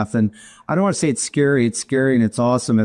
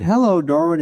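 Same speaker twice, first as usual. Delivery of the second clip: lightly imitated friendly assistant, pitched up; pleasant AI voice; 6 semitones higher than usual. Home AI greeting its owner Darwin, mock pleasant voice. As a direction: greet him like a sweet polite machine. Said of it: "in the most pleasant voice".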